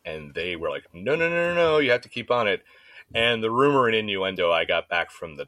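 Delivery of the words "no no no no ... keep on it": higher-pitched rapid-fire no-no-no; mock insistent refusal; insistent objection. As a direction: overrule the patient, pitched up. Doctors' insistence acted out.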